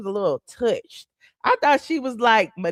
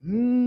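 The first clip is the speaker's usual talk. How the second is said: car hum. Shown as a demonstration. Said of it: "ten miles an hour".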